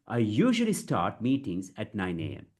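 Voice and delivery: measured, small gaps between phrases; deliberate model sentence; chunked delivery. Shown as a demonstration. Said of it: "you have to break it".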